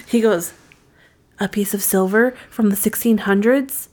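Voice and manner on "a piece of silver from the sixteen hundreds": rising at every phrase end; mock narrator, questioning lilt; uptalk. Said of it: "talks with an in-, up inflection all the time".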